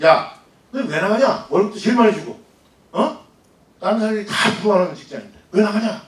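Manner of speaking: incredulous questioning. Retold or imitated. Asking why someone quit an enviable job, incredulous. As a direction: retell a baffled scolding.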